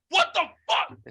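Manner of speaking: very high, incredulous squawk; mock outraged disbelief. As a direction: imitate a flabbergasted guy. Coke guy's outraged reply, retold.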